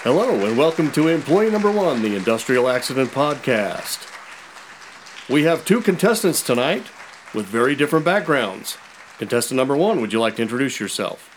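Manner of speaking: lightly voiced cheesy game show host; flirty teasing dating host.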